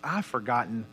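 contrite prayer. Retold or imitated. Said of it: "I said".

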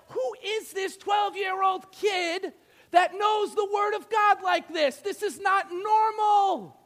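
high, amazed mock outcry; played-up incredulity, drawn out at the end; astonished teachers. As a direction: imitate scholars baffled by a child prodigy. Acts astonished teachers of law.

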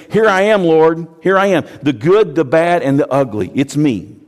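loud, high crying out to God; raw, loud surrender; impassioned confession. Acted. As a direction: throw it all open, loud. Confessing to the Lord.

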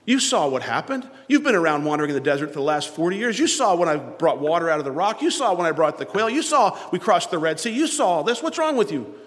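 hypothetical God scolding Joshua, rising sharply; building rebuke. Retold or imitated. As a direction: build the scolding up to What's wrong. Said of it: "instead of God coming and say".

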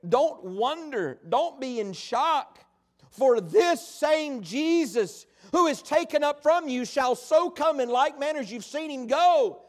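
lightly voiced angel, slow and deliberate; a hint of a heavenly messenger, spaced-out words; angel's proclamation. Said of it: "the angel speaks and says".

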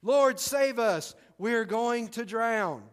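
hammed-up shout of terrified fishermen; mock panicked shout. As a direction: cry out for rescue, drawn out. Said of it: "they were shouting".

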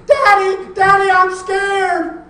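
high, very loud scream for Daddy; child's frightened scream. Acted. Four-year-old waking from nightmare to Daddy, screaming in fear. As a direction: scream it out like a scared little girl. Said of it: "she woke up screaming".

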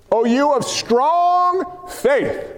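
slow, weighted reading of the verse; pointed slow reading; slow deliberate reading. Shown as a demonstration. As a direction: lean on each word, slowly. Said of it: "read that, please".

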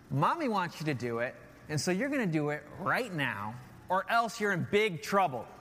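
a firm fatherly warning, loud; loud stern dad voice. Retold or imitated. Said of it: "I went into my deeper voice. ... I got loud".

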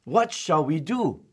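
a servant crying out in alarm to his master; panicked servant. Retold or imitated. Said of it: "he shouted to the, to the prophet".

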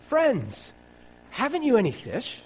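high, carrying call across the water. Acted. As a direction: call out to the boat from the shore. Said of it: "And he called out to them".

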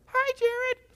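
very high, loud squeaky mimic of a boy's voice; mocking high voice. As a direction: squeak it back at him like a mocking camp kid. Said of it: "I didn't even know I had a high voice".

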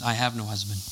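low and soft, eyes to the floor; ashamed murmur. Retold or imitated. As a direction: admit it quietly, caught out. Woman ashamed, looking down.

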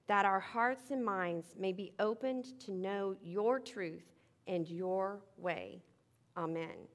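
reverent prayer voice. Acted. Opening prayer.

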